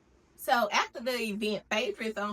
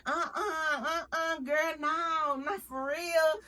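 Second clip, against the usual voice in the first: mock disbelief; 6 semitones higher, slower than usual. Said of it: "they like".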